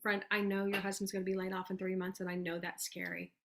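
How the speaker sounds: soft, sincere promise to a friend; reassuring reach-out. Acted. Coach voicing a sample message to a worried friend, reassuring. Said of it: "Maybe you're like".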